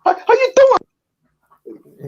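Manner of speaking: high, exaggerated Italian accent; Italian wiseguy greeting in an accent; Matt Menard Italian accent. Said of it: "Italian accent is so funny".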